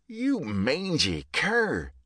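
slow, high, drawn-out bellow; angry bellow. A narrator's reading. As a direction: bellow at the dog in rage. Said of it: "Buck bellowed".

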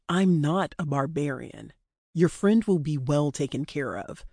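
lightly voiced male captor, composed; a hint of a controlled, dismissive abductor.

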